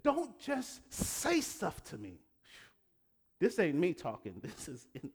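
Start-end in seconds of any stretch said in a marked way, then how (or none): 0.0-2.2 voicing God. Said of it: "He's trying to get at this".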